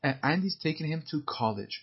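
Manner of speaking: "And is taking him to college" said slowly; slowed line. Shown as a demonstration. Teacher slows the film dialogue for students. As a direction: read "And is taking him to college" at a learner's pace. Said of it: "که یواشتر دیالوگا رو بگم".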